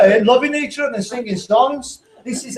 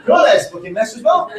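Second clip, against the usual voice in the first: laughing retold jab; 4 semitones higher, faster than usual. Retelling his insult to wife.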